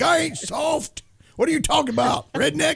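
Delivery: a squeaky fake tough girl protesting; mock high squeal. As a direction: voice jumped way up, mock offended. S1 mocks S0 defending herself.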